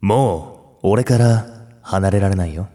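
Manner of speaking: slow, tender crooning line; honeyed voice. Acted. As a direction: purr it like a romantic lead. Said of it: "甘い声リクエストです". (甘くささやく声)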